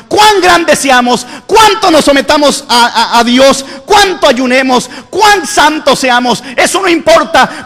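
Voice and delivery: rising, pressing sermon delivery; preacher building up the church; fervent preaching. Acted. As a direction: drive the point home to the congregation. Preaching at full force.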